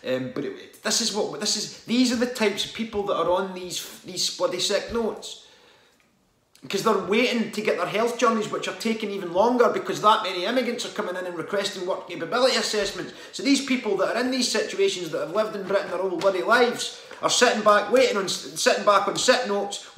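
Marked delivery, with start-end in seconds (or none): 0.8-17.0 rising angry rant about sick notes; getting worked up and louder. Real, not acted. Venting to viewers, worked-up angry rant. 17.2-20.0 louder, higher angry push; heated outburst. Real, not acted. Ranting about people on sick notes, louder outburst.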